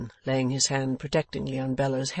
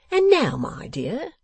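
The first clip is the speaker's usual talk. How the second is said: higher, slow address to his ward; fond guardian; 9 semitones higher, 6 dB louder, slower than usual. Acted. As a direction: turn indulgently to the young lady. Boffin turns fondly to Bella.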